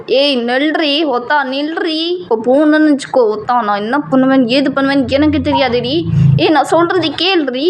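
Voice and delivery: mild mock shout after the girl; calling out angrily. JK calling her back. (கோபமாக நிறுத்த அழைக்கும் குரல்)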